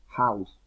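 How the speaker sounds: "House" opened with a Spanish J sound; "House" said like "jaus"; aspirated H. Shown as a demonstration. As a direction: breathe out the H at the start of "House". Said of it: "como si fuera una J".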